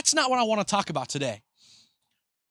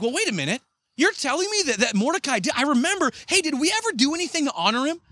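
higher, suddenly struck king; surprised king; 5 semitones higher than usual. Acted. King realizing Mordecai was never honored, surprised and higher. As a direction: catch yourself remembering a debt.

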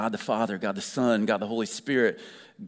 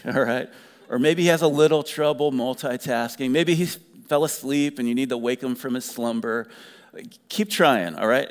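mocking taunt; 2 semitones higher, 4 dB louder than usual. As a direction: jeer at the rival prophets like a cheeky heckler. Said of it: "Elijah is just like".

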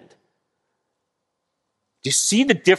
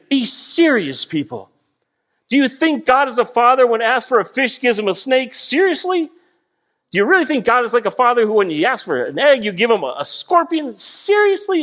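rising disbelief, higher on seriously; incredulous; 4 semitones higher than usual. Retold or imitated. Jesus to his disciples, incredulous and rising. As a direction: ask it as if it's absurd. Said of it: "incredulous tone in Jesus' voice".

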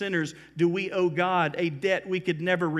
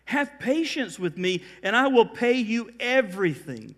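mild plea, pitch lifted; imploring; 5 semitones higher than usual. Acted. Servant on his knees begging the king, imploring. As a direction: plead for more time, voice raised. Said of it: "imploring him".

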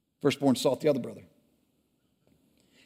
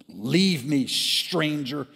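mild mock scream; 2 semitones higher, much slower than usual. Brother screaming at the firstborn, only mildly raised. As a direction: push him off without much force. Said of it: "screamed the brother".

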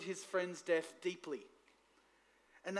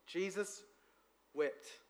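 Jesus and wept said softer, as a mournful repeat; grieving reading; 4 dB quieter, slower than usual. Shown as a demonstration. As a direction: let "Jesus" hang, then a soft, sorrowful "wept". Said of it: "When God actually cried".

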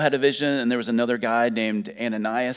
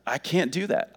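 higher-pitched, hurried-out refusal; protesting Peter; 5 semitones higher than usual. Acted. Peter refusing from his tradition, in higher-pitched protest. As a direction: object earnestly, pitched up. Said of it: "he's responding based upon what he knows".

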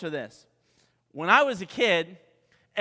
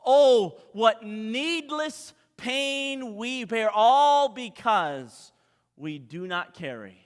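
slow, emphatic hymn recital swelling then falling away; hymn recitation; 3 dB louder, slower than usual. Acted. Preacher recites a beloved hymn to the congregation, slow and dramatic. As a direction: recite it line by line, drawn out, with weighty pauses.

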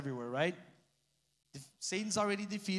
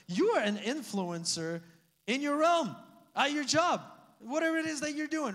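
preaching emphasis; 7 semitones higher, 3 dB louder than usual. Real, not acted. Pastor building to emphatic exhortation.

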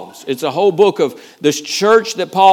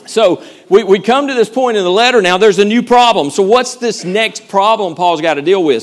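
hyped preaching; 4 semitones higher, 4 dB louder than usual. Real, not acted. Re-energized after crowd warm up.

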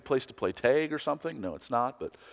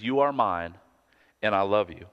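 tender; 4 semitones lower than usual. Shown as a demonstration. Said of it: "He says".

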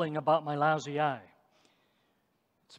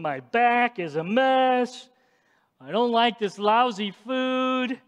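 a hammed-up complaining wanderer, pitched up; whiny complaining Israelites; 4 semitones higher, 3 dB louder than usual. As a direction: whine like a fed-up grumbler in the desert. Voicing the grumbling Israelites.

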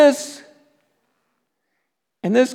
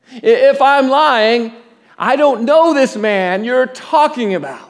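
raised-pitch, insistent mock oath; emphatic denial; 5 semitones higher than usual. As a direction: act out a man swearing he's innocent. Acting Peter's sworn denial.

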